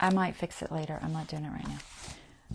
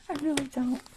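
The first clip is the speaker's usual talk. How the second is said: whispering; 7 semitones higher than usual. Real, not acted. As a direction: whisper it to yourself. Muttering to herself while sewing.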